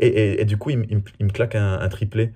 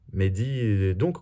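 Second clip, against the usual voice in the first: tag slow, broken-up catchphrase; 6 dB quieter, much slower than usual. Shown as a demonstration. Explains his catchphrase, first slowly.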